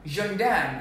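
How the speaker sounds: "Gendarme" as ZHUNG-dahn; careful pronunciation. Shown as a demonstration. Diction teacher modelling the French policeman word, careful pronunciation. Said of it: "Say gendarme".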